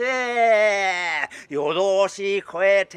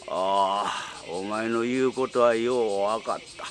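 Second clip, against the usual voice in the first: put-on old tengu voice; 4 semitones lower than usual. Dying tengu's last wish.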